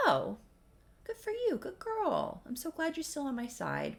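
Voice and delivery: high, sing-song praise like to a pet; condescending good girl; patronising Devlin. Retold or imitated. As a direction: pat her on the head with your voice.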